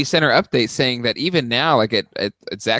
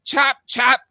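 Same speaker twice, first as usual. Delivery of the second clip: put-on high kid voice, gleefully gory; little boy playing; 8 semitones higher than usual. Toddler playing killer with Daddy, high kid voice. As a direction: play the toddler chopping off Daddy's arm. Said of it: "he comes up to me and he just goes".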